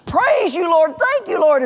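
high, loud widow rejoicing over answered prayer; jubilant praise. Acted. Widow praising God over surprise groceries, jubilant. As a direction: burst into exultant, high-pitched thanksgiving. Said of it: "she just begins to praise God".

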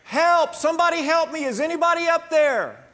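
high, loud panicked cries for help; desperate calling out. Acted. Hanging from a branch, calling up for help in panic. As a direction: yell up the cliff in terror. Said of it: "started calling out to anyone who would listen".

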